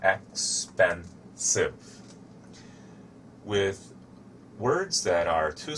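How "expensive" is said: "expensive" said very slowly, ex-pen-sive, each syllable clear; slow syllable demo. Shown as a demonstration. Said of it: "has three syllables".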